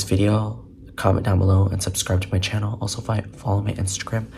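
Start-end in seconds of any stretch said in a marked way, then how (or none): 2.8-4.3 tired stumbling over words; stuttering. Real, not acted. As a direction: stutter on the first word. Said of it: "Sorry for stuttering".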